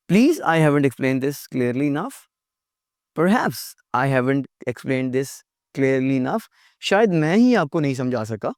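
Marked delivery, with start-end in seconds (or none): 0.1-6.5 very slow, gentle apology; polite. Shown as a demonstration. Teacher modelling a polite apology, slow and gentle. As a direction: soften it, take the blame kindly. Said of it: "polite".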